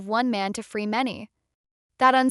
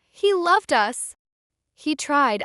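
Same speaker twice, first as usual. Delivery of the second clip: high, loud, drawn-out protest; crying out; 5 semitones higher, 4 dB louder, slower than usual. A narrator's reading. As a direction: cry out in his defence, pitched high. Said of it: "Robin crying out".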